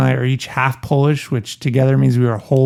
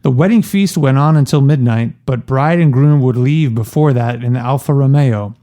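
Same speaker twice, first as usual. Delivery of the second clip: reading aloud. Shown as a demonstration. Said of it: "Puzo writes, page three forty-one".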